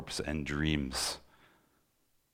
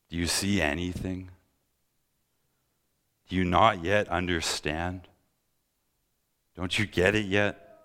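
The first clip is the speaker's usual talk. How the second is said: exasperated plea, pitched higher; Jesus crying out; 4 semitones higher than usual. Acted. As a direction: cry out in pained disbelief, voice raised in pitch. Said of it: "hear Jesus cry out".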